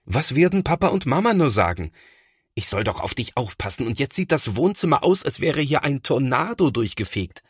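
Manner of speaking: lightly voiced worried boy; voiced older brother. A narrator's reading. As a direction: fret over the mess. Thomas panics about the mess.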